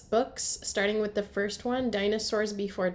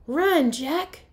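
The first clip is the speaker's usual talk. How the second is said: higher and louder playful urging; urgent cry; 7 semitones higher, 7 dB louder than usual. Acted. Annie pretending a monster comes, urgent playful cry. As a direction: sound the alarm like a kid playing pretend. Annie urges Jack to flee.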